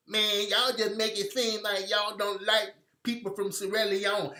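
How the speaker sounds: mocking troll voice. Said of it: "somebody with some fucked up accent talking Ebonics".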